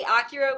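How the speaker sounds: "Akira" said the proper Japanese way; Japanese pronunciation. Shown as a demonstration. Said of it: "with the proper Japanese pronunciation".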